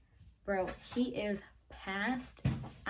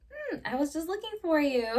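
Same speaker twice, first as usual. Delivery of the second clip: higher, louder fake innocent sweetness; innocent act; 8 semitones higher, 8 dB louder than usual. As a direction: play it sugary like you weren't sneaking out. Caught sneaking out by date.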